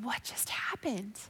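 soft, slowed, shocked whisper; stunned whisper. Retold or imitated. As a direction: whisper it, dazed. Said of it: "laying there in my bed going".

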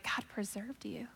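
hushed, soft whisper of faith; grandma whispering reassurance; gentle whisper. Retold or imitated. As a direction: breathe it out tenderly. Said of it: "she was like".

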